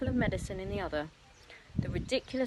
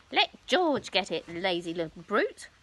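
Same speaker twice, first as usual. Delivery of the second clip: shouting; 3 dB louder than usual. Acted. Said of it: "Grandma shouted".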